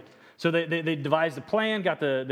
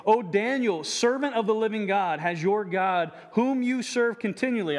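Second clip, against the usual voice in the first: anguished cry; 5 semitones higher than usual. A narrator's reading. King calling to Daniel at the den, anguished. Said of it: "he cried out in a tone of anguish".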